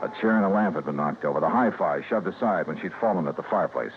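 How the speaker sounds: hard-boiled detective telling the story; noir narration. Acted. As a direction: narrate it flat and knowing over the music. Noir narration over music.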